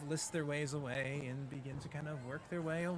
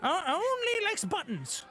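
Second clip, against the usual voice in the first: lightly voiced goblin, rising high at the end; chatty goblin; 4 semitones higher than usual. Goblin explaining Ernest likes only buttons, lightly put-on voice. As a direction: goblin explaining in a wandering, lifted voice. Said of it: "goblin dressed as a ladybug".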